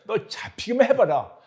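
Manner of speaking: high, loud threat; threatening hunter. Shown as a demonstration. A father hunting his hiding son, threatening. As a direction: warn him you'll catch him. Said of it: "찾는 목소리와 표정".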